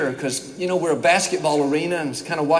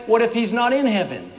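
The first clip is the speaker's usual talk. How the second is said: sarcastic; 3 semitones higher than usual. Acted. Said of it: "He said sarcastically".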